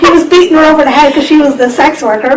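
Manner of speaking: talking through real laughter; amused laughing. Real, not acted. Speaker tells audience it was only a drama, laughing. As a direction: laugh while admitting the mistake. Laughs at her own mistake.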